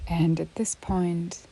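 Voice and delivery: unhurried yoga nidra guidance with long pauses; measured, spacious relaxation-teacher delivery; guided meditation. Real, not acted. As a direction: guide a listener gently into rest, leaving space between phrases.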